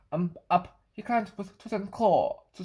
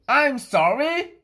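sorry; 6 semitones higher, 7 dB louder, slower than usual. Acted. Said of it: "Kitty said".

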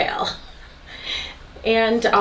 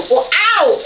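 sudden ow; 8 semitones higher, 5 dB louder than usual. Real, not acted. Burns arm on stone.

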